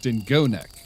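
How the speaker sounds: stress on the go syllable in dingo. Settling where the emphasis goes in dingo neck: stress on go in dingo. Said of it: "I like the emphasis on the go".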